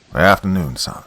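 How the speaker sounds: put-on Southern country accent, friendly old preacher greeting a young man; strong country accent. Old country reverend greets the new technician, strong Southern accent. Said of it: "he said in a strong country accent".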